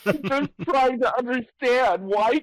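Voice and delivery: glitchy slowed robot voice. Real, not acted. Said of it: "It goes robot voice when you get too excited".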